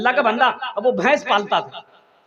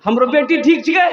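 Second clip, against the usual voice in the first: loud question; 2 semitones higher, 3 dB louder than usual. Retold or imitated. Mother-in-law asks loudly.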